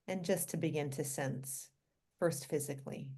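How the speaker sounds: calm, unhurried guiding voice with long pauses; guided meditation. Real, not acted. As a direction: gently lead listeners through relaxing the body.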